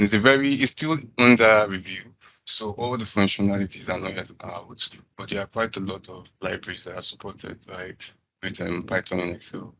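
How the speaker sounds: crackly distorted audio; talking through a crackling mic; clipping distorted mic. Real, not acted. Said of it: "your audio is crackling".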